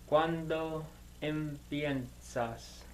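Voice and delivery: ¿Cuándo empiezas? spoken slowly, each syllable placed; slow careful question. Shown as a demonstration. Student to tutor, slowly trying out the question. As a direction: work through ¿Cuándo empiezas? slowly, testing it. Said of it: "informal, I'm assuming".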